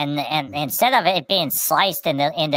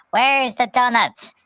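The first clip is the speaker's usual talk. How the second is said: higher, slow hedgehog asking for donuts; pitched-up hedgehog, slow and hopeful; Pudgy voice; 7 semitones higher, slower than usual. Retold or imitated. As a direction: stretch it out, hopeful and hungry. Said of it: "and Pudgy's like".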